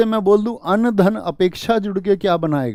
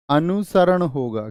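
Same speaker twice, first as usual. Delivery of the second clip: अनुसरण said slowly and carefully; teacher slowing down on अनुसरण; slow model pronunciation; slower than usual. Shown as a demonstration. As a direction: spell out अनुसरण slowly for students. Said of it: "लेकिन शरण कैसे लिखा जाता है?".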